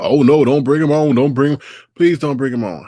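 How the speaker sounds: whiny, pleading mock voice; mock panic. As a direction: mimic a scared man begging. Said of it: "he was freaking out".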